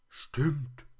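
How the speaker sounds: high, loud little toy voice; plush teddy. A narrator's reading. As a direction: pipe up as a stuffed teddy.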